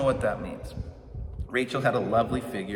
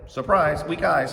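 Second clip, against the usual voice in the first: louder, punchy mock reveal; mock surprise; 4 semitones higher, 7 dB louder, slower than usual. Pastor delivering the Leah switch punchline, louder mock reveal. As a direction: land the gag like a game show reveal.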